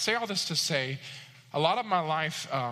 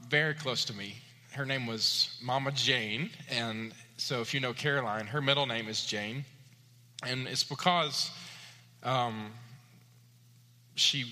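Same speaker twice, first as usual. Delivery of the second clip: a real lump in the throat; real, holding back tears; 2 semitones lower than usual. Real, not acted. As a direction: speak of her through welling grief. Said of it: "I didn't expect to get emotional".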